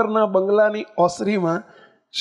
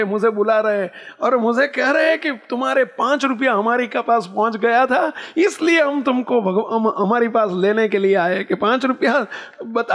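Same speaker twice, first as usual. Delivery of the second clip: put-on excited old woman; 3 semitones higher than usual.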